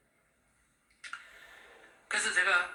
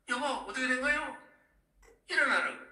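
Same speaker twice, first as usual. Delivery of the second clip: alarmed waking; 10 semitones higher, 3 dB louder than usual. Retold or imitated. Wife waking him from nightmare, retold.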